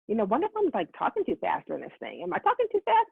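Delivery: fretful self-questioning, pitch leaping up on the repeat; imitated inner worry, swinging high; mock fretting. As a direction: act out a nagging worry. Retelling her own worried thoughts.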